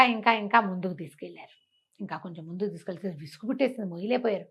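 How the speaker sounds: usual speaking voice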